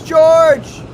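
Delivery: high, loud yell of a name; mock shout. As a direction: read it out as a hammed-up holler. Reads chat message, echoing earlier yell.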